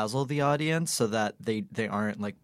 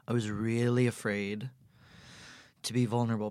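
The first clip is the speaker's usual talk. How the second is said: hushed confession; 4 dB quieter than usual. Real, not acted. Host confessing her fear to the guest in a whisper. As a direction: whisper it, unguarded.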